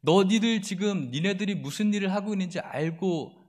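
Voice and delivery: scornful enemy voice, taunting; mocking taunt. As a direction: jeer at them like a bully. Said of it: "라고 비웃는 거예요".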